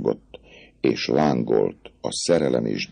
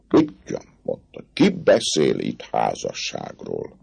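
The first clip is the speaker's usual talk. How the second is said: scornful dismissal. Acted. Captain dismissing marriage, scornfully. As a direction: wave the idea away. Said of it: "meglepetés, lenézés, könnyelműség".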